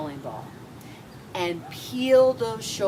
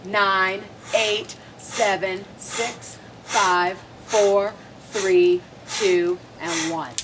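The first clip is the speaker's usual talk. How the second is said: counting workout reps; much slower than usual. Acted. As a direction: count through the effort, pushing. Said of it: "I love the fact that you're counting".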